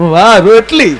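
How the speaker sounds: a loud, admiring cry over the bread; loud gushing praise. Retold or imitated. Husband praising the neighbour woman's rotli, loud and gushing. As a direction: gush loudly about the rotli, stretching વાહ. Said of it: "બાજુવાળી શિબલીએ ના જોતા કે".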